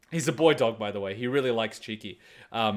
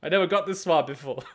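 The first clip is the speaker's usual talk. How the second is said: bewildered dog; 5 semitones higher, 5 dB louder than usual. Retold or imitated. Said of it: "It was just like".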